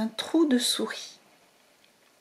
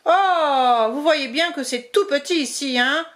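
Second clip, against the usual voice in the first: grumbling mole; 3 semitones higher, 4 dB louder than usual. Acted. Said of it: "Grogna la taupe".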